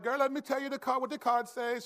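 sassy fake-Jamaican card reader; fake Jamaican accent. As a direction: put on a phony Jamaican fortune-teller accent. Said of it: "a Jamaican accent 'cause she wasn't really Jamaican".

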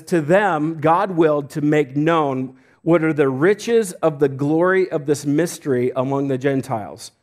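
slow, emphatic pulpit reading; deliberate phrases, drawn-out key words; scripture reading. Acted. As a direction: read the verse out with weight. Reads scripture aloud to church.

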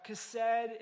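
chesed said with a rasped kh start, kh-ESS-ed; chesed spoken slowly, the Hebrew way. Shown as a demonstration. Pastor teaching the congregation a Hebrew word, chesed with a rasped kh start. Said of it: "is the Hebrew word for mercy".

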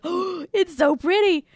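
high, slow, swooning gush; gushing actor. Retold or imitated. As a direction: coo over the ring like a starstruck fan. Actor gushing over ring.

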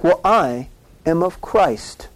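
slow, lofty and self-satisfied; snooty voice. Retold or imitated. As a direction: say it like the smug kid in class. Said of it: "they're like".

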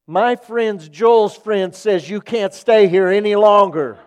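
loud, high, drawn-out imitation of a child; mock shouted command. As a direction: belt it out slowly, hamming up the banishment. Child's command to spirit, retold for laughs.

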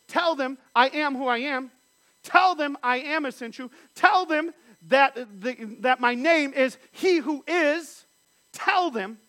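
loud, slow, ringing command; proclaiming God's words. Acted. Preacher booming God's command to Moses. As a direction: declare it like God commanding Moses.

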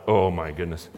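low, hushed gasp of dismay; a soft shocked murmur; quiet dismay. Retold or imitated. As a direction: let the heart sink quietly on it. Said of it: "my heart just went".

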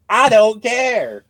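very slow, flat-out indifferent drawl; slow, bored old marshal, hammed up; surly Tommy Lee Jones. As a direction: drag it out like a grumpy old lawman who can't be bothered. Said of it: "his only line is gonna be".

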